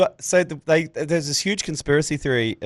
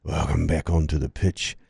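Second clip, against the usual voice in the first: slow stadium PA announcer, name hugely drawn out; ground announcer; 7 semitones lower, slower than usual. Retold or imitated. Announcer needling the player as teams return, ground announcer voice. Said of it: "I went".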